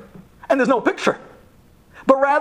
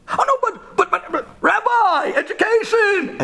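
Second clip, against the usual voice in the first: put-on much higher, protesting kid voice; a kid scrambling for an excuse; defensive kid; 13 semitones higher than usual. Kid defends himself to rabbi.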